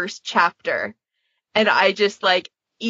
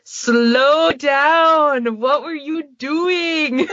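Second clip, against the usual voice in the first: exasperated yelling at past self; 7 semitones higher, much slower than usual. Retold or imitated. Scolding her own old podfics, mock anguished outcry. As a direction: scold your younger self in mock despair. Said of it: "and I'm just like".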